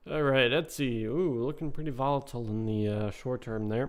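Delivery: losing his voice, a bit hoarse; rough, worn-out voice. Real, not acted. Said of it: "I'm kinda losing my voice".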